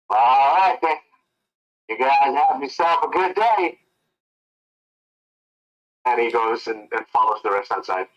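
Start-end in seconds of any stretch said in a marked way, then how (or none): 0.1-3.8 huffy farewell. Acted. Frank leaving, slighted.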